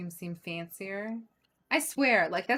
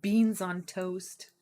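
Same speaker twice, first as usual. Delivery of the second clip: mock posh; 4 dB louder, slower than usual.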